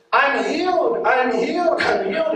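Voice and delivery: high, ringing repeated "I'm healed"; excited cry. Retold or imitated. Healed woman calling her friend at dawn, high and joyful. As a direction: burst out with joy on the phone.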